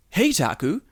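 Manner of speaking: stilted textbook question, "beach" leaping high and loud; high-pitched BEACH. Acted. Recording asking Taku out, absurdly high "beach". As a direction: exaggerate the rise on "beach". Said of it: "the beach was so high".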